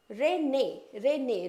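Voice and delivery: रेने with a clear e sound, not रेनी; say rene. Shown as a demonstration. Teacher drilling spelling to students, रेने said slow and clear. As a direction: stress the e in रेने, ren-ay. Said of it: "रेनी नहीं होता है".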